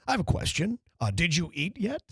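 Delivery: lightly voiced polished speaker, each word enunciated; a hint of the careful broadcaster asking about food; C-Cat's proper English. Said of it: "like C-Cat would say".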